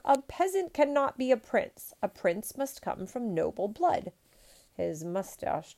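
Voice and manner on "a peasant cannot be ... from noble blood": high, loud protest easing toward the end; shrieking outrage. A narrator's reading. Emperor rejecting peasant suitor, shrieked protest. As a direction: start shrill and indignant, then settle. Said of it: "shrieked the emperor".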